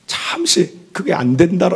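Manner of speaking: usual speaking voice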